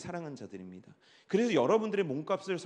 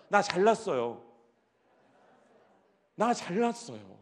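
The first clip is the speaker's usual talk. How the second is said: model for group; 4 dB louder, slower than usual. Shown as a demonstration. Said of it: "다 같이 한번 해봅시다".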